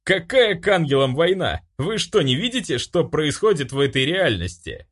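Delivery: high, exasperated protest; outraged high-pitched questioning; indignant yelling. A narrator's reading. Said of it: "заорал тот".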